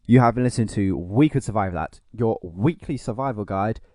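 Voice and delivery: smooth radio sign-off; smooth outro voice. Acted. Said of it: "vintage smooth outros".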